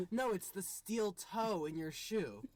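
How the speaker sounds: slow, insistent agent voice; retelling the agent's stubborn repeat, slowly; mock TSA agent. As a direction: drag it out like a stubborn officer. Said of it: "And he goes".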